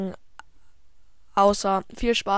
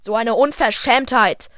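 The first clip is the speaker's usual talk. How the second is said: mock indignant; 6 dB louder than usual. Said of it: "der hat mich beleidigt".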